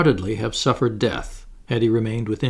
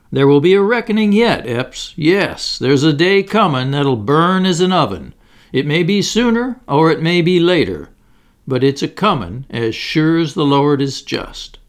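rising, louder, preacher-like warning; prophetic warning; 4 semitones higher, 5 dB louder than usual. Acted. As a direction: thunder it like a prophet of judgment. Bass prophesies a reckoning.

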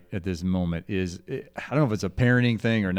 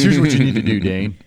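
a hint of a gruff old grandfather laying down the law; louder, matter-of-fact old-timer telling how it's done; grandfather's advice; 3 dB louder than usual. Grandson retelling grandfather's potty advice, lightly voiced old man. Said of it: "He goes".

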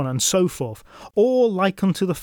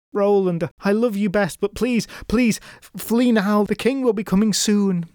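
pleading; 5 semitones higher than usual. Acted. Sister begs him to flee.

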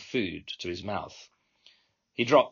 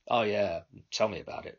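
toned-down Cockney. Acted. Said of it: "tuning my accent down ... closer to his own Cockney".

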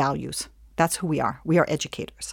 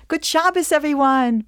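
much higher, bright sing-song greeting; cheerful husband; 9 semitones higher, 4 dB louder than usual. Retold or imitated. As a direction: boom a jolly hello as he walks in. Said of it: "My husband comes home from shul".

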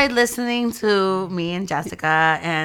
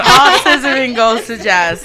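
laughing. Real, not acted. Laughing while repeating joke.

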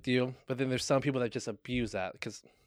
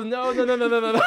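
laughing denial; 10 semitones higher, 9 dB louder than usual. Real, not acted. Disowning the joke.

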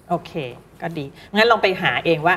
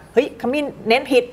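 higher-pitched pretend correction; mock fault-finding, pitched up; mock scolding; 7 semitones higher than usual. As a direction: exclaim as if catching a student's mistake. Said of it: "มันไม่มีคำผิดหรอกว่า".

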